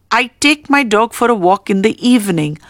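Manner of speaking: I stressed at the start of the sentence. Shown as a demonstration. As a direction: lean on the opening word I. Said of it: "The stress is on I".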